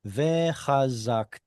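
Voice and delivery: slow, careful Vechazakta; slow teaching demo of Vechazakta; stress shown. Shown as a demonstration. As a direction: spell out Vechazakta slowly, leaning on the marked syllable. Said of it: "has the stress right here".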